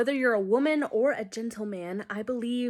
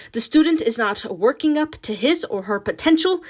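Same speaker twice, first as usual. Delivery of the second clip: put-on Ma reads the report aloud in a heavy Hispanic accent, louder; 4 semitones higher, 7 dB louder than usual. Ma reading the progress report in a heavy Spanish accent. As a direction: read it in a thick Mexican-Spanish accent. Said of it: "reads in her heavy accent".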